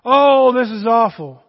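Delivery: mock griping, loud on the "oh"; complaining. Preacher mimics friends grumbling about the world, mock complaining. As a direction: lament it like a grumbler, lightly hammed up. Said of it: "you and I will start complaining".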